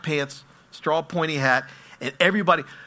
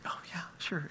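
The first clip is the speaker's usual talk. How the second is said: naive agreement; 17 dB quieter than usual. Retold or imitated. Innocent couple agreeing.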